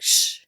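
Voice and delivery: quick sharp shush. Retold or imitated. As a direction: hush someone mid-sentence. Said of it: "Like, literally just like".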